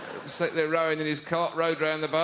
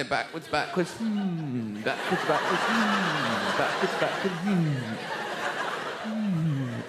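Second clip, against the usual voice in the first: mock smug skater; much slower than usual. Mocking ice skaters' smug style.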